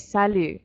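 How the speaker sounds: "salut" ending on the vowel, sa-lu; silent final T. Shown as a demonstration. Teacher contrasts it with bonjour, silent T. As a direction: leave the T off "salut". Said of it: "the silent T on the end".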